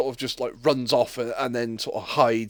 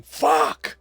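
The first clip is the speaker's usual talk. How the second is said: much higher hammed-up yell; mock shout; 14 semitones higher than usual. Polar bear waking at the North Pole, mock yell. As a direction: scream it like a shocked bear. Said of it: "a polar bear shouting".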